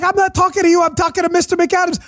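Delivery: high, hammed-up shout of a confused host; exasperated high-pitched mock shout; mock yelling. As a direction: imitate a host yelling past the wrong guest. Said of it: "He's yelling at this guy".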